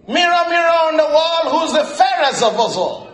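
fairy-tale queen. Retold or imitated. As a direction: ask the mirror like the queen. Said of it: "Thank you".

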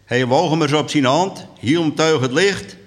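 lively storyteller's reading; measured dialect storytelling; story narration. A narrator's reading. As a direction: tell it to an audience as a tale. Reads a story aloud.

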